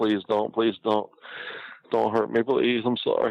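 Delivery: high, pleading, begging voice.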